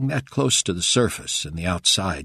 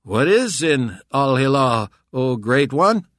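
louder, slow disguised voice; 7 semitones higher, 8 dB louder than usual. A narrator's reading. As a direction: disguise your voice, mocking. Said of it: "in a slightly different tone".

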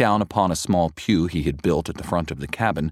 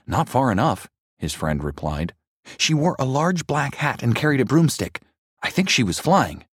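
put-on spooked boy; 7 semitones higher than usual. A narrator's reading. Friend describes the witch.

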